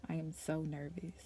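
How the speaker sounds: a soft, nervous admission. Real, not acted. Sharing her nerves with viewers, softly. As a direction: confess your nerves softly. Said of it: "I'm nervous".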